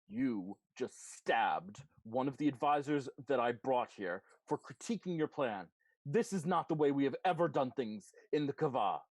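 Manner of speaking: a hint of a commander scolding; stern leader. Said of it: "and says".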